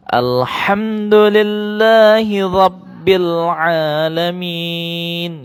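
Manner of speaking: slow chanted tilawah; Quran recitation. Shown as a demonstration. Teacher chants the verse for pupils to repeat. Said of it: "Pak Guru ulang".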